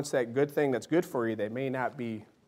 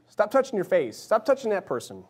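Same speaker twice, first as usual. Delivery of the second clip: higher-pitched, lightly acted telling-off; mock parental scolding; 6 semitones higher, 3 dB louder than usual. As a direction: order restless kids to behave, mildly acted. Voices a parent correcting children.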